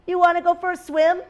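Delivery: high-pitched invitation; lightly voiced duck asking to play; storybook duck. A narrator's reading. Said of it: "said the duck".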